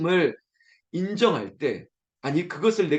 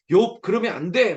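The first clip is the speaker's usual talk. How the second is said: mild mock call of warning, higher and louder; half-playful shout to hold Job back; trying to stop Job; 4 semitones higher, 5 dB louder than usual. Preacher calling out to stop Job, a light mock warning. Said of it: "막 이렇게 말리고 싶은".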